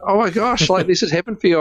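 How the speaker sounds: high-pitched, excited imitation of a friend; retold delight. Amber to the speaker about a heavenly place, retold delight.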